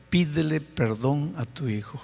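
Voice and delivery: soft, tender urging; gentle inner voice. Retold or imitated. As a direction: coax him kindly to apologize. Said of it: "sentí una voz aquí en mi corazón". (la voz del espíritu, suave y tierna)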